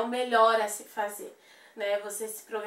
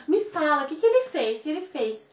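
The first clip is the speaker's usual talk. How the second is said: higher, louder mock pleading mother; anxious mother; 4 semitones higher, 4 dB louder than usual. Mother pressing her daughter on the phone, anxious mock voice. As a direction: press her to say what happened. Mother demands what father did.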